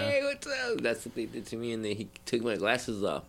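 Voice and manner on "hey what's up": high, falsetto "hey" of a fake friend; imitating a scammer's cheery hello; mock friendly greeting. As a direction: play the overfriendly stranger, pitched way up. Retold friendly hustler greeting.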